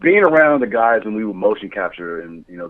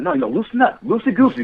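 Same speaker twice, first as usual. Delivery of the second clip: higher, cheery coaxing director voice; coaching director; 12 semitones higher than usual. Retold or imitated. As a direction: coax the actors to loosen up, pitched high. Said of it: "and it's like".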